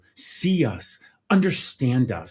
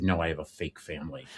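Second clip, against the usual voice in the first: joking laugh; 4 semitones lower, 6 dB quieter than usual. Retold or imitated. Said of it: "I said".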